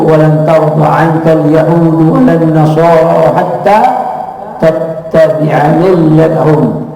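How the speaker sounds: slow, reverent chant of the verse; Quranic recitation. Acted. Preacher quotes the Quran to his audience, reverent chant. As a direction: recite the verse with measured, sacred weight.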